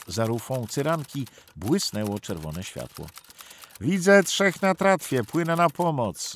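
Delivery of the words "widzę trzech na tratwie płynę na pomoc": raised, urgent call over the radio; loud radio report. A narrator's reading. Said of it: "zameldował Michalik bazie". (głośny meldunek przez radio)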